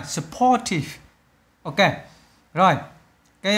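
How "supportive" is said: "supportive" with a high POR, then a fall; second-syllable stress. Shown as a demonstration. Teacher confirms the answer for students, "supportive" stressed on the second syllable. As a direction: lift and lean on POR in "supportive". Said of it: "nhấn âm hai".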